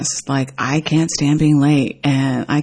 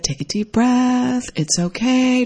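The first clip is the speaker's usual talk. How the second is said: soothing friend; 7 semitones higher, slower than usual. Retold or imitated. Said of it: "Just like I would talk to any friend".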